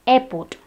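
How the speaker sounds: airport with both Rs dropped; silent R. Shown as a demonstration. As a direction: say airport as EH-poht. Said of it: "the R is silent".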